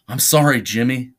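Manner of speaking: mild acted holler. Charlie apologizes from the floor to Jimmy, mildly hollered. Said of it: "Charlie hollered".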